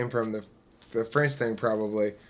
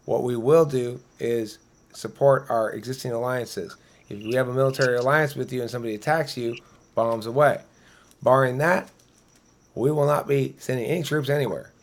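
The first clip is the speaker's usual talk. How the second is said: mock campaign promise. Joking would-be president promising voters, mock solemn pledge. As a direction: play a candidate vowing to voters, half in jest. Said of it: "We have the president's word on it".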